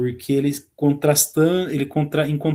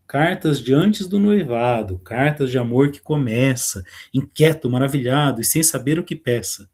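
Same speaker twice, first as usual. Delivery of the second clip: poem reading. Acted. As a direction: read the lines like a poem. Teacher reads the poem aloud. (leitura de poema, pausada)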